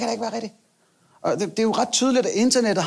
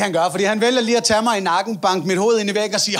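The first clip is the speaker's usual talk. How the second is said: usual speaking voice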